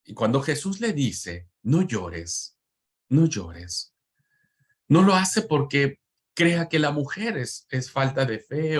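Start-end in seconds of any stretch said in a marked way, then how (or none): 1.6-4.0 low, soothing no llores; tender consoling. Acted. Preacher voicing Jesus to the widow, low and tender. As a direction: comfort a grieving mother gently.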